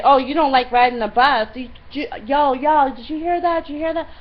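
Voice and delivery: loud, high mimicry of outrage; mock incredulity. Woman rallying the busload against her, mock incredulous. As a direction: imitate someone calling bystanders to witness.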